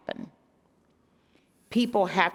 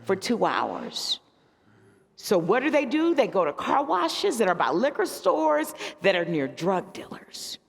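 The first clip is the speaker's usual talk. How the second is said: police chief's complaint; 6 semitones higher than usual. Retold or imitated. Chief tells clergy about lost theaters, mildly imitated and higher. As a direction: lightly voice the worried chief, pitched up. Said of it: "He's like".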